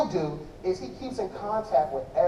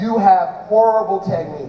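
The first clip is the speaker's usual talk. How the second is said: louder mock troll; 9 dB louder than usual. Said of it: "troll him".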